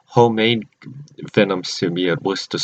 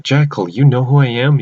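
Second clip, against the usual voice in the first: mildly startled, lifted question; retold shock; 3 semitones higher, 3 dB louder than usual. Character to the Jackal who named them, mildly shocked. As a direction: act out a touch of disbelief.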